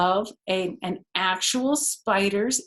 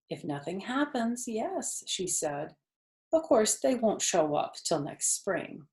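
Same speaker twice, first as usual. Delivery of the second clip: sad; 3 dB quieter than usual. Acted. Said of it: "Charlotte's voice sounded sad".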